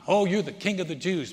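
scornful mock title, lightly acted. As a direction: taunt him with a sneering Oh. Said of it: "and mock him".

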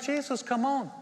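high, loud, pleading; frantic father urging Jesus on; exasperated plea. Retold or imitated. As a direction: beg him to hurry. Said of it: "And he's like".

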